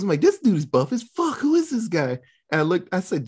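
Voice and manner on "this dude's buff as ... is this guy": retold confusion. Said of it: "I was confused".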